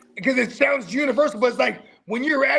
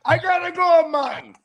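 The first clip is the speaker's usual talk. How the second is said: put-on higher, joking Jamaican accent; mock Jamaican accent; 4 semitones higher, 4 dB louder than usual. Teasing about working twelve jobs, mock Jamaican accent.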